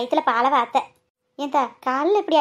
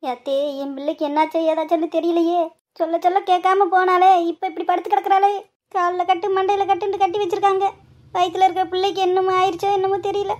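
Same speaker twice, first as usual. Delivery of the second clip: tearful lament; 5 semitones higher than usual. Acted. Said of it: "அங்க போய் அழுகாதீங்க".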